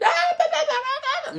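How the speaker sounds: very high giggling "da da da"; laughing babble. Retold or imitated. Man reacting to being flattered, high laughing babble. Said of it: "I'm like".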